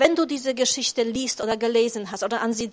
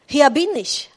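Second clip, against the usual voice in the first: loud answer; 2 semitones higher, 7 dB louder than usual. Acted. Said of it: "antwortete Abraham".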